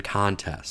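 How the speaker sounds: contests with the weight on CON; contests, first syllable stressed. Shown as a demonstration. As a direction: say contests as a noun, CON-tests. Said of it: "the stress changes on nouns versus verbs".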